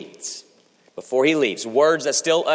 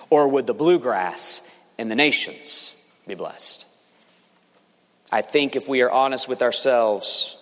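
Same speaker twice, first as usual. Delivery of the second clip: usual speaking voice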